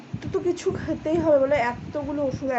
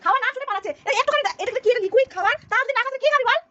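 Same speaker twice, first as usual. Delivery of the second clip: distressed; 11 semitones higher, faster than usual. Real, not acted. Mother distressed, child refuses food.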